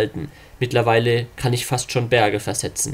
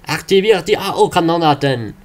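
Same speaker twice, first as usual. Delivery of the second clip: higher, commanding officer; 5 semitones higher, 3 dB louder than usual. Acted. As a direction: bark the order. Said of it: "Inari-Offizier".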